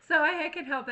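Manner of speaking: bursting into a high laugh, then talking through it. Real, not acted. Joking to viewers about her many jobs, laughing. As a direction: laugh at yourself, then keep going.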